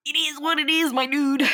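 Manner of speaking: laid-back mock Jamaican accent. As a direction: slip into a jokey Jamaican lilt. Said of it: "I did a Jamaican accent".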